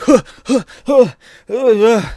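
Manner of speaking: imitated loud, high effort grunts; punching grunts. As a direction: huff with each wild swing. Imitating Daredevil swinging wildly.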